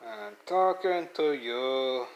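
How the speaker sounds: stern. Real, not acted. Pet ignores speaker.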